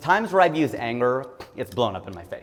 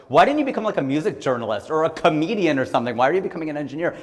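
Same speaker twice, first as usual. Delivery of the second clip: lightly voiced incredulous friends, much higher and louder, getting quick; baffled friends; 5 semitones higher, 5 dB louder than usual. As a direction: ask it like puzzled classmates who can't believe it. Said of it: "And people are like".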